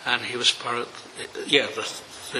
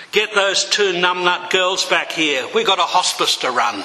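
higher, louder, laughing at the end; brisk commanding shout; 6 semitones higher, 5 dB louder than usual. Acted. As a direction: bark out the punchline with a grin. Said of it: "Isan didn't hesitate".

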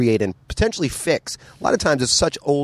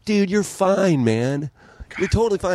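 high-pitched, dismissive mock reassurance; imitated drinking buddies; 9 semitones higher than usual. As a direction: wave the worry away like a drinking pal, voice pitched up. Voices drinking friends reassuring him.

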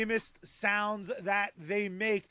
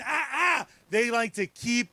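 excited shout; slower than usual. Real, not acted. Excited rant about Marvel.

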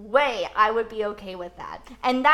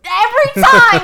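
much higher, louder burst of agreement; emphatic exclamation; 9 semitones higher, 15 dB louder than usual. Real, not acted. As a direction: seize on the phrase and shout it back.

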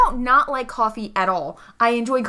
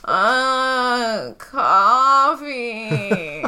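a touch louder, insistent; mildly raised demand; much slower than usual. Acted. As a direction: repeat it a bit louder until someone comes. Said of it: "she just gets a little louder".

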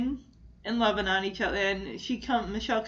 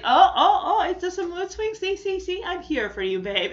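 gushing Jesse; 7 semitones higher, 5 dB louder than usual. Retold or imitated. Jesse consoling, laughing impression.

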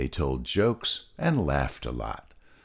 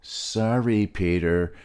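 yelling back; 3 semitones higher than usual. Acted. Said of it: "Molasses yelled back".

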